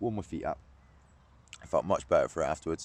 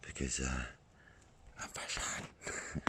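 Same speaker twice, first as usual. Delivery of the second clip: dropping into a slow whisper; low voice fading to whisper; hushed; 5 semitones lower, 11 dB quieter, much slower than usual. Real, not acted. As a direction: keep it down so the fish don't hear. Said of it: "not gonna be talking too loud".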